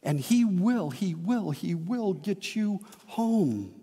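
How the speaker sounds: repeated promise softening and slowing toward home; fading reassurance. Acted. Preacher promises God will bring them home, fading softly.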